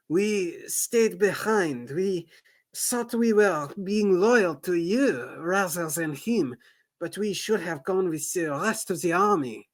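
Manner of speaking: ashamed soldier. Acted. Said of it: "blushing in shame".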